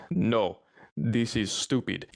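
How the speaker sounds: put-on slow, lightly Russian-accented refusal; a hint of Russian accent, dismissive; mild Russian accent saying no. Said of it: "He talked very heavy Russian accent".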